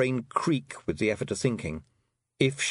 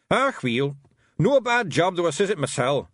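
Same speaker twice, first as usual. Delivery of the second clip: raised gruff little Scots pixie, pleased with himself; boastful wee Feegle, a bit louder; Rob Anybody's Scots voice; 6 semitones higher, 4 dB louder than usual. A narrator's reading. Rob Anybody boasting to Tiffany after the fight, Scots pixie voice.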